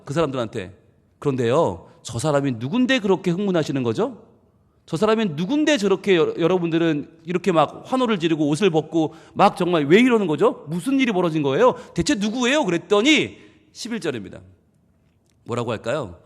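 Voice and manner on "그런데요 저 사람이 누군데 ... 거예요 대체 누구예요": curious townsperson. Retold or imitated. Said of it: "분위기가 조금 가라앉은 다음에 물어봅니다".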